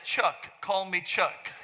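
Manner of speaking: giving up, laughing. Retold or imitated. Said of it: "I said, laugh".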